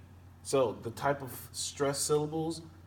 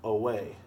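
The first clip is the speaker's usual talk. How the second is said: "away" with a light first syllable and stressed "way"; stress on second syllable. Shown as a demonstration. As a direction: lean on the "way" in "away". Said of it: "unstressed and then stressed".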